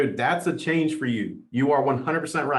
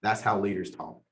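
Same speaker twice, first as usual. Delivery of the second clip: quiet, softer, lower, awed aside to himself; hushed awe; 5 semitones lower, 5 dB quieter than usual. Retold or imitated. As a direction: murmur it like chills down your spine. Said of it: "I was like".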